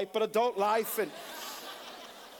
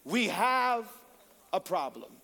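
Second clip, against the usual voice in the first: crisis quote; slower than usual. Retold or imitated. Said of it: "we will say".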